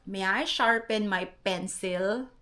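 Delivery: slow question with "pencil" as pen-SIL; own Filipino accent. Retold or imitated. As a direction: sound out "pencil" with a clear "sil". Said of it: "Yun yung sinabi kong first sentence". (tanong na may Pilipinong bigkas ng "pencil")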